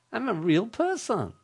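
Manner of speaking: chirpy recorded robot; robot caller. Retold or imitated. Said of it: "repeated on the tape over and over".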